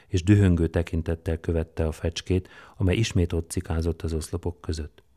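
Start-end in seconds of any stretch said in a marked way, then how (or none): none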